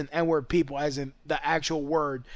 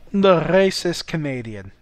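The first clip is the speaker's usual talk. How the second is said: the racist Canadian announced louder; naming a character; 4 dB louder than usual. Shown as a demonstration. Naming his planned character, a louder announcement. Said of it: "I'll have to develop that character".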